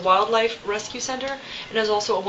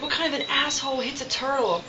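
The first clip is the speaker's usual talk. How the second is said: mildly indignant, higher-pitched retelling; a touch of outrage, raised in pitch but not volume; imitated pissed-off rant; 5 semitones higher than usual. Upset man finding an injured turtle, mildly imitated indignant rant. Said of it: "He was, like, so pissed".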